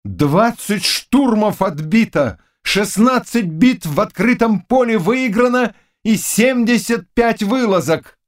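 high, slow, proud and strong. A narrator's reading. Knight reports victories to the king, suddenly strong. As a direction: declare it with sudden force. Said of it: "неожиданно сильным голосом".

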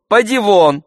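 high, loud get-out; shooing away. A narrator's reading. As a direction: drive the servant out loudly. Master shoos servant away.

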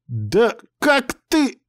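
very high, slow gasping indignation; the machine chokes on its own outrage; choking with outrage. A narrator's reading. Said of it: "задохнулась от чувств".

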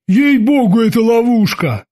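Babs, fearful. A narrator's reading. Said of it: "особой храбростью не отличался".

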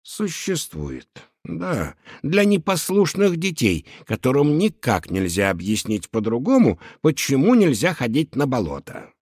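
condescending. Acted. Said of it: "снисходительно покачал головой".

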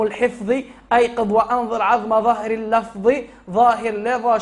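slow, measured recital of a didactic poem; steady, drawn-out chanted verse; verse recitation. Acted. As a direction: recite the tajweed verse slowly and deliberately. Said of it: "قال لك".

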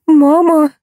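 high, loud shriek from icy water; screaming. Acted. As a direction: scream out for mum, shocked. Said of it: "с трудом сделала вдох и завопила". (пронзительный вопль)

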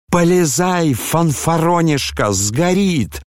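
bully him into the fire; frenzied yelling. A narrator's reading. Ferdyshchenko yanks Ganya's sleeve, yelling frantically.

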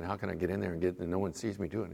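low, soft, acted scheming to oneself; sneaky thought. Pie eater planning to sneak seconds, quiet sneaky thought. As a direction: quietly plot it as a private thought.

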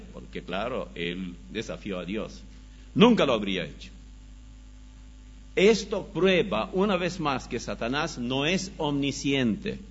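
ordinary talk

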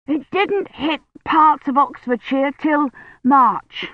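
breathless, slow, pausing between words; gasping between words after running; out of breath. A narrator's reading. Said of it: "stopping between words to catch his breath".

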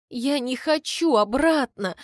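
sobbing. A narrator's reading. The girl begs not to be sent back, sobbing. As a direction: sob it out. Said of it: "всхлипываю я".

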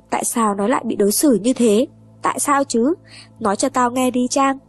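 a broken mother's rising anguished plea; despairing cry. Acted. Mother crying out to Trang in despair, building anguish. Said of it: "gào lên trong tuyệt vọng".

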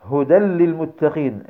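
"هدى للمتقين" slowly, as "hudal-lil-muttaqin"; merged tanween. Shown as a demonstration. Teacher reciting the example, tanween merged into laam. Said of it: "ولكن قل".

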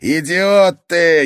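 slow, loud, high-pitched insult; furious yell. Acted. Oscar yells at his brother in fury. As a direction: spit out the insult in rage. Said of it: "яростно крикнул Оскар".

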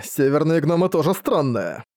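lightly mocking tease; teasing. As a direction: poke fun at him. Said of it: "Подразнил его Крокто".

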